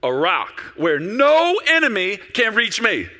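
confident start swelling to a loud, high cry; building, ringing boast of trust in God; proud, shoulders-back declaration. Acted. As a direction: proclaim it like King David, drawing out the key words. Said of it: "I think he kind of pins his shoulders back".

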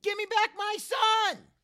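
high, loud, stretched-out yell; Mel impression. Asking Mel if it is good, then showing it off in a yell. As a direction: belt out the movie line, slow and loud. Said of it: "I sound just like you when I say it".

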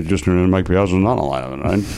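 put-on low, halting drunk sportscaster; lightly slurred-style slow impression, tipsy and sideways; Ross Porter. Host shows the old Dodgers announcer getting drunker, low drunken mumble. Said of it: "also get drunker as the".

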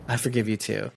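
quiet, tender forgiveness; soft forgiving. Retold or imitated. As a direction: say it gently and low.

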